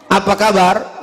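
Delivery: curt, toneless "Apa kabar?"; robotic question with no warmth in it; WhatsApp-style greeting. Shown as a demonstration. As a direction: ask it like a text message, no personal touch. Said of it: "bahasanya bahasa WhatsApp".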